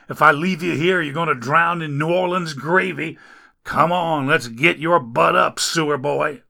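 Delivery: grouse while getting him up; grumbling rescuer. Acted. Rescuer complains over injured Dagon, loud grumbling.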